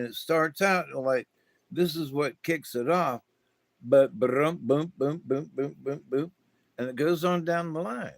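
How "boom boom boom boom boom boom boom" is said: rapid bouncing booms, each tipping upward; quick run of rising boom sounds; chain of booms. Shown as a demonstration. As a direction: imitate a row of things knocking into one another. Imitates molecules bumping in a chain.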